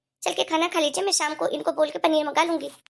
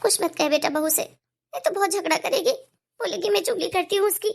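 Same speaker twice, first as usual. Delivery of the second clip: put-on higher, timid old mother's voice; apologetic elderly mother, higher pitch; meek old mother; 3 semitones higher than usual. Mother apologising to son in kitchen, meek and higher.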